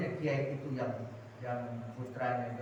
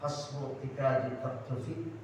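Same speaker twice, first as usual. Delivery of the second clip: kiai reciting correction; slower than usual. Retold or imitated. Kiai correcting the young imam, slow gentle recitation. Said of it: "Antum tadi baca nazamnya salah".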